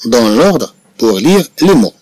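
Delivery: very slow, syllable by syllable; slow dictation. Shown as a demonstration. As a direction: read slowly for the pupils to follow.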